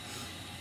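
very faint mock sobbing; barely audible pretend sobs; imitated silent crying. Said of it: "I'm crying so silent".

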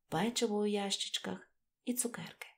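ordinary delivery

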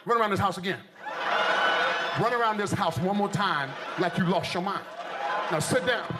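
low, commanding dad yelling at his son; a mock-stern dad giving orders; stern father. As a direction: bark it like an old-school father. Father scolding son in story.

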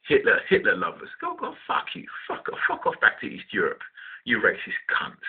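furious rant forced out in a harsh whisper; hissed rant. Retold or imitated. To the staring woman at the bus stop, a whispered furious rant. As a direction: spit the insults under your breath. Imagined rant, voice drops unvoiced.

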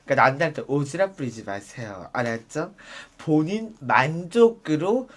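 low, soft slow public-service voice; soft closing message. Acted. Quiet PSA-style closing telling viewers to mind their own business. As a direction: calmly wrap up with a lesson.

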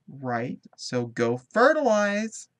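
drawn-out playful command. Pretend. Commanding her Sim playfully.

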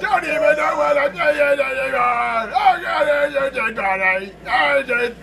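high, loud, stretched-out yelling; strained high voice. Real, not acted. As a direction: keep the voice pushed up high and loud. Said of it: "why am I still talking like this?".

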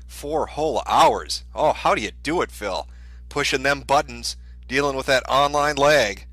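sarcastic awe at his hard day's work; slow down and lean on the big words; mock sympathy. Mock sympathy for streamer's workday.

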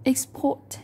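Export stressed on the second syllable, ex-PORT. Shown as a demonstration. Teacher modelling the verb, Export stressed on its second syllable. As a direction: lean on the end of Export. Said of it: "chúng ta sẽ rơi vào âm thứ hai".

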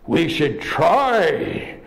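a hint of a gruff bear apologizing; deep grisly bear. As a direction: speak as a sorry bear, slowly. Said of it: "in a deep, grisly voice".

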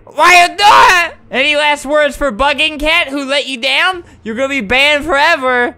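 loud high hammed-up telling-off; mock scolding shout. Admin mock-scolding a banned player, loud and high. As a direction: scold him like a cartoon judge.

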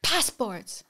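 an official's impatient second ask; repeated demand. Retold or imitated. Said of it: "he says again".

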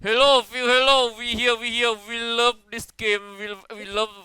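mock fan message. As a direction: ham it up like an eager fan. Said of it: "เขาต่างชาติเว้ย".

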